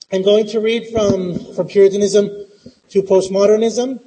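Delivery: muffled behind a mask; through a face mask. Real, not acted. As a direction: speak through a cloth mask. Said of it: "this is so hard with a face mask".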